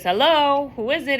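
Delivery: put-on high, loud silly kid voice disguising himself; a boy faking a funny voice on the phone. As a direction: pitch it up into a goofy prank-caller voice. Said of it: "And he puts, like, a funny voice".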